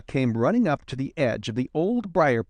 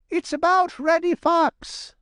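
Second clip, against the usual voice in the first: very high-pitched little chuck; eager Johnny Chuck; 3 dB louder than usual. A narrator's reading.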